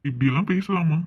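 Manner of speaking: loud, sharp scolding. Acted. Mother scolding daughter for cheeky talk, loud rebuke. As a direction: rebuke her, loud and firm.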